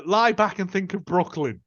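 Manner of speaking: a hint of an American accent; mild mock American accent. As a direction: put on a light American voice for the line. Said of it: "The accent change".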